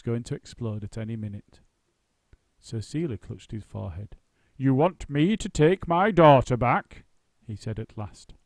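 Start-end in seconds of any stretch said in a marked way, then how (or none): 4.6-7.0 stunned disbelief. Acted. Actor stunned, loud slow.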